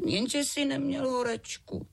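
put-on high, sulky little girl voice; high child's whine, slowing at the end; whiny girl. A narrator's reading. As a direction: sulk like a child kept in bed. Girl answers dad.

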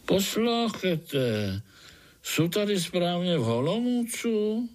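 a friendly mole, calling out slowly; good-natured mole. Acted. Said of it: "volalo to dobrácky". (dobrácký krtek, vysoko a pomalu)

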